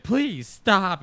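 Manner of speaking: high, loud please stop; mock pleading. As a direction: cry out for him to quit. Girlfriend begging at dinner.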